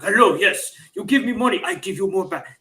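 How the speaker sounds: pushy street hustler's broken English, lightly put on; mock broken English. Mimicking a Petersburg panhandler hustling tourists, mock broken English. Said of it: "that very stereotypical broken English with a very aggressive".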